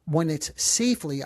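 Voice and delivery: "safely" said deliberately, with emphasis; stress on safely. Real, not acted. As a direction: lean on "safely", set slightly apart. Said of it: "I emphasize the word safely".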